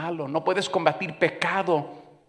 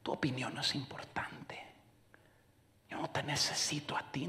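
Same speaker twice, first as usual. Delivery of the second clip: hushed put-downs; 12 dB quieter than usual. Retold or imitated. Voicing his unspoken put-downs.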